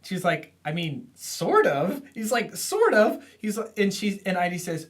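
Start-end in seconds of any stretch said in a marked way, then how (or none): 0.6-2.0 hesitant shrug. Retold or imitated. Idy hesitantly answers Bobby. 2.6-3.2 much higher, louder squeaky repeat of Sort of; mocking echo. Bobby echoes Idy's answer in a high mocking squeak.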